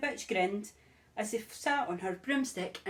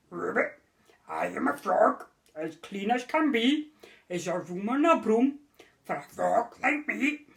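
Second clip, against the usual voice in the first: croaking frog. Acted. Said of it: "then said with a croak".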